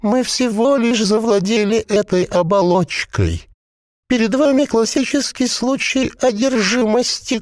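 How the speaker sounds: a possessed corpse bubbling out its words; gurgling voice. A narrator's reading. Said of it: "бульканье маслянистого варева".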